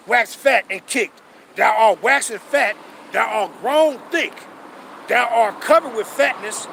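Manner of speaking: slow, deliberate verse reading; scripture reading. Acted. Reading Deuteronomy aloud to his followers, slow and weighty. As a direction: lay each verse down slowly.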